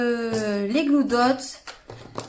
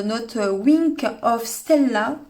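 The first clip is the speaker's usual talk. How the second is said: English accent; 4 dB louder, much slower than usual. Shown as a demonstration. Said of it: "vous avez vu le, l'accent".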